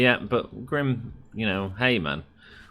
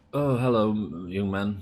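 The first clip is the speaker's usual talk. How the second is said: put-on slow, elderly old man's voice. Retelling what an old man at the services said: imitating an old man's voice. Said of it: "he talked old".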